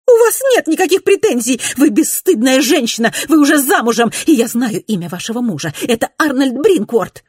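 very high, loud shouting; furious accusation. A narrator's reading. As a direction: denounce her. Mrs Glenorm accusing.

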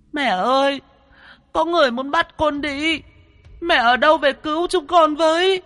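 put-on very high, wailing little girl calling for mum; crying child. Ghost girl crying for her mother, wailing. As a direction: cry out for mother in despair. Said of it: "khóc ngặt nghẽo".

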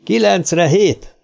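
called password. A narrator's reading. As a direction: call the code words out slowly.

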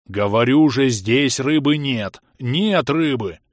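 gurgling swamp monster, slowed; gurgling tentacle alien. Acted. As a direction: bubble the words out like a swamp creature. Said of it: "пробулькала".

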